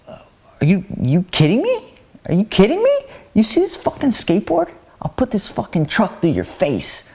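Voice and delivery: hammed-up angry skater threat; mock furious yell. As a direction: blow up at the big guy. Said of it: "Mikey just went one hundred on him".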